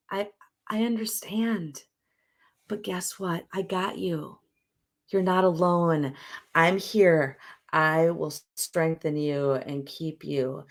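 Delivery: put-on the inner adult comforting a struggling child part; reassuring adult self. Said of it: "part of us shows up and says".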